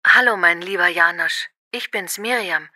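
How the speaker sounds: ordinary talk, nothing marked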